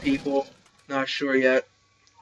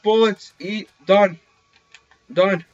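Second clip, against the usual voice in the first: higher and louder burst of triumph; excited shout; 9 semitones higher, 8 dB louder, much slower than usual. Real, not acted. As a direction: yell it as the kill lands. Gets the kill, celebrating.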